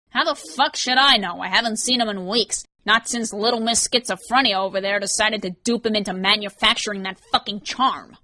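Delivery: drip contempt on each line; a cornered crook sneering at Ryan; sneering Vance. Acted.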